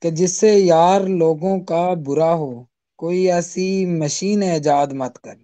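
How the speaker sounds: measured ghazal recital, each line lingering; poetry recitation. Acted. (غزل کا ترنم سے پڑھنا)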